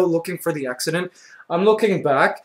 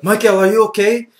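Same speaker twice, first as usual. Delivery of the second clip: higher-pitched imitation of a mother; put-on mom voice, raised pitch; worried mom; 5 semitones higher, 4 dB louder than usual. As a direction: fret down the phone like an anxious mom. Voicing worried mom on the phone.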